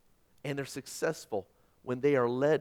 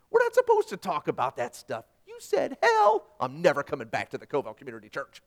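mock offended churchgoer; 7 dB louder than usual. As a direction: ham up a scandalised churchgoer.

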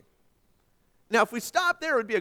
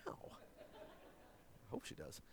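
breathy laugh through the words; 9 semitones lower, 28 dB quieter, much slower than usual. Real, not acted. Preacher joking about his wife, laughing through it. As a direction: laugh it out at his own joke.

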